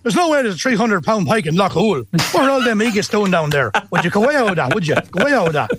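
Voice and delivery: "would you go out with that" in a broad Irish Midlands accent. Shown as a demonstration. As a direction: scoff at a tall tale like a local. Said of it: "And number three".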